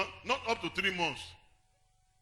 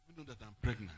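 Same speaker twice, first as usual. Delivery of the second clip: lower, softer confiding line; a hint of the wife confiding; voicing the general's wife; 8 semitones lower, 7 dB quieter than usual. Pastor quoting the Major General's wife, lightly voiced secret. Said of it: "Major General's wife".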